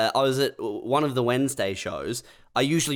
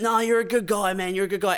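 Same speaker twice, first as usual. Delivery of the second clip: higher-pitched placating backpedal; retold backing down; 6 semitones higher than usual. Heckler backs down to the comic he insulted, mock placating. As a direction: mimic a man climbing down, higher than usual. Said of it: "then he backed down".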